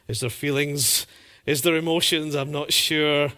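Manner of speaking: put-on a grown man mumbling like a sulky teen; sulky teenager. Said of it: "I feel like a teenager".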